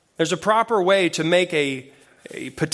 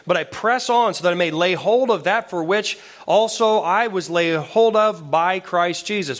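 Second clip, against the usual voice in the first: scripture reading. Acted. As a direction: read the passage with rising fervour. Reads Philippians aloud.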